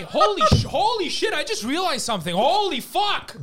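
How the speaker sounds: mock revelation. Real, not acted. Joking to a friend about Canada and Scarface, with mock shock. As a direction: gasp it out like you just cracked a conspiracy. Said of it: "sudden comic realization".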